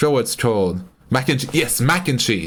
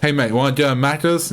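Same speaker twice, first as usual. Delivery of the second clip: put-on Australian accent; 3 semitones higher than usual. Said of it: "that's what it'll sound like".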